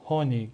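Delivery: هونیگ with a clear breathy h at the start; spoken German h. Shown as a demonstration. Teacher showing that h before a vowel is spoken. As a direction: open هونیگ with an audible h.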